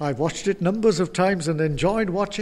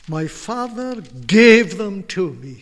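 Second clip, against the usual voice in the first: emphatic quote; 7 dB louder than usual. Acted. Preacher repeating Jesus' words.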